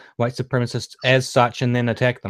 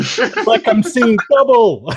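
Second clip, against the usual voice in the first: hammed-up slow, higher voice; slow put-on voice; 8 semitones higher, 7 dB louder, slower than usual. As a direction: drag it out in a silly voice. Acting out the guy's line.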